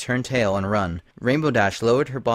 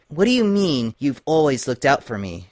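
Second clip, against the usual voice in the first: higher, wary questioning voice; suspicious Twilight; 4 semitones higher, 3 dB louder than usual. Acted. Paranoid Twilight questioning Lyra, higher and suspicious. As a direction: challenge her friend's words with distrust.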